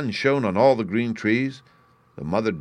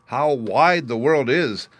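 high, slow, louder voice of little ducklings; wondering ducklings; 5 semitones higher, 4 dB louder, slower than usual. A narrator's reading. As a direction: marvel slowly at the big world. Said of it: "said all the young ones".

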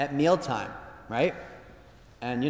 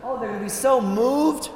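mock grandiose, higher, chuckling through it; puffed-up self-praise; 7 semitones higher than usual. Priest mocking his own vanity, hammed-up and pleased. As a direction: ham up your own big head. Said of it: "you get a big head".

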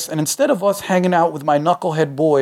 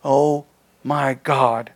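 slow wail; 3 semitones lower, much slower than usual. Acted. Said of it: "she wailed".

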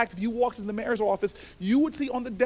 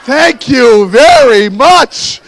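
laughing thanks; 18 dB louder, much slower than usual. Real, not acted.

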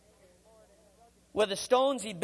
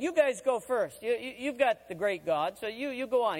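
mock-generous, sarcastic invitation; 3 semitones higher than usual. Prophet sarcastically challenging the prophets of Baal to go first. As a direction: sarcastically wave them on to go first. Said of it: "He got very sarcastic with them".

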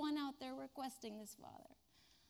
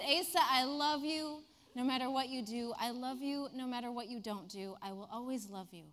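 tender. Retold or imitated. Teacher reassuring the crying boy, tender. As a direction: hold the child with your voice.

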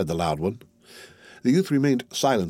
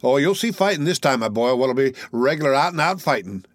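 showman's relish; 4 semitones higher than usual. Acted. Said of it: "with the air of a man who was about to exhibit a battle".

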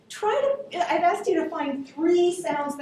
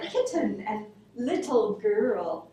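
fake English accent; 3 semitones lower, slower than usual. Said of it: "his English accent".

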